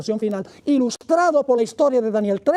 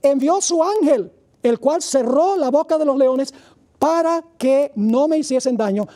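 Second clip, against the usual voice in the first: voicing Daniel; 3 semitones higher, slower than usual. Daniel replies to the king from the pit, slow fervent declaration. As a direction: proclaim your innocence to the king with fervour.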